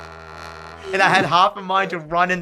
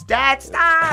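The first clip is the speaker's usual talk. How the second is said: put-on exasperated teen; 13 semitones higher than usual. Teen scolding dad at bowling.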